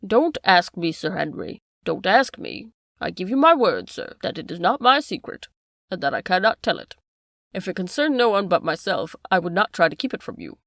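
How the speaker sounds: a hint of a frightened butler begging his master; desperate pleading. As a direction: plead with him not to ask. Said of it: "in the last extremity of doubt and misery".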